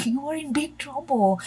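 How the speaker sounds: laughing through the warning. Real, not acted. Reader laughing as she warns the client of big trouble. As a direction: giggle as you deliver the bad news. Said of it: "I'm laughing".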